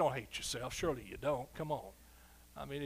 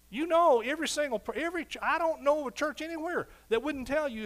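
high and loud, driving each line home; full-force preaching; 8 semitones higher, 6 dB louder than usual. Acted. Pastor rousing his congregation about God's sure word, fervent. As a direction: preach it hard to the crowd.

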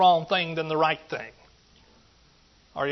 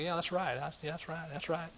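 quiet musing to himself; 12 dB quieter than usual. Retold or imitated. Musing, repeating his dad's words.

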